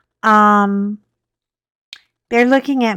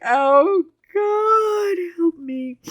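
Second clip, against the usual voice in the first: retold panic; 9 semitones higher, much slower than usual. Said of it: "I was like".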